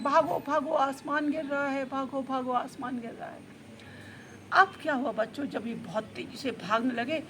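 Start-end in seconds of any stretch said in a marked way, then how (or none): 0.0-3.5 understated alarm chant, fading; mild story yell. Acted. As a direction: call out a warning in a storyteller's half-shout. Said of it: "और दोनों चिल्ला रहे हैं". (हल्की चिल्लाहट में चेतावनी)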